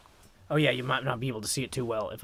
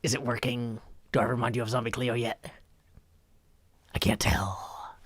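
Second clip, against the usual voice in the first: Zombie Cleo voice. Acted. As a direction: croak it out like a tired zombie. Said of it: "This is my best Zombie Cleo impression".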